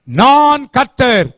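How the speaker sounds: a slow, solemn, emphatic voice of God; emphatic declaration. Acted. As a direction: declare it like God announcing himself, slowly. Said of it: "ரொம்ப அழுத்தமாய் சொல்ற வார்த்தை".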